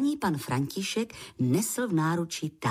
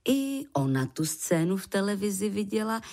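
ordinary delivery, nothing marked

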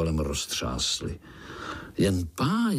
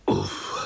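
relieved sigh; 11 semitones lower than usual. Acted. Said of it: "oddechli si pavoučci sborem".

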